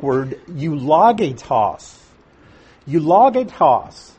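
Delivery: eulogitos said slowly as you-loh-GAY-tos, syllable by syllable; careful Greek word. Shown as a demonstration. Teacher slowly demonstrating the Greek word eulogitos. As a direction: spell out eulogitos carefully, stressing the third syllable. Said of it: "I'm emphasizing the pronunciation".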